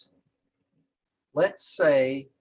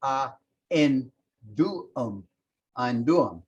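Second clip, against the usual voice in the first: slowly; slower than usual. Shown as a demonstration. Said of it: "you'd say slowly".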